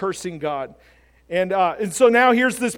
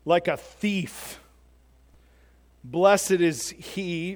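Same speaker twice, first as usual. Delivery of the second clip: solemn scripture reading; 2 semitones lower than usual. Acted. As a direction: read the verse out deliberately, phrase by phrase. Reads out scripture.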